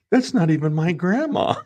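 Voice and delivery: put-on high, loud kid's protest; imitated kid. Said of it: "the kid comes up and goes".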